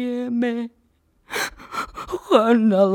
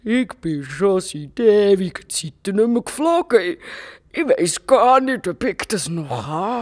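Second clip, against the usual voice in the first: shy dragon; 4 semitones lower than usual. Acted. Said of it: "ganz verlegen".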